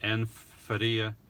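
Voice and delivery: Anne Faria, slowly, with tapped r; Portuguese-style pronunciation. Shown as a demonstration. Streamer retrying a viewer's name, Faria with Portuguese tapped r. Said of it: "I don't know if it's Portuguese".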